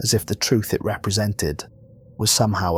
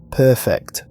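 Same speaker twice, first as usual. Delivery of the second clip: warm laughing; 4 semitones higher, 7 dB louder than usual. A narrator's reading. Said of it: "something like laughter in that cosmic voice, warm and genuine".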